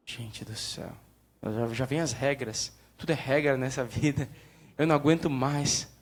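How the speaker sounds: low, exasperated, worn out by all the rules; lightly acted fed-up believer; mock weary sigh. Mock weary complaint about rules.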